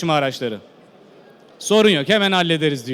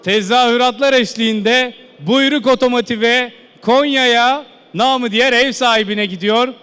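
loud announcement; 4 dB louder than usual. Real, not acted. Announcing buyer over cheers.

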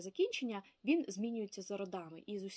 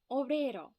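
teacher repeat word; 4 semitones higher, 7 dB louder than usual. Shown as a demonstration.

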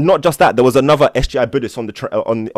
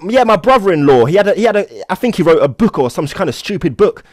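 put-on dismissive old man, pitched higher and louder; grumpy old man; 8 semitones higher, 5 dB louder than usual. Grumpy old man on the plane brushing it off, loud and high. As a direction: toss it off like the book means nothing. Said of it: "he's some grumpy old man".

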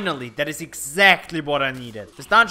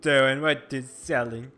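lightly hammed-up Italian accent; stupid Italian voice; 3 dB louder than usual. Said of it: "I said this voice is stupid".

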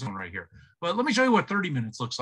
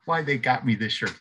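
ordinary talk, nothing marked

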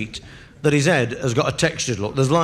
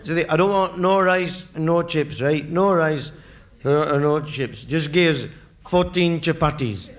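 put-on raised drunken calls of Zidhi; drunk calling the waiter; 3 semitones higher than usual. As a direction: call the waiter over, drunk. Drunk orders curry in cafe.

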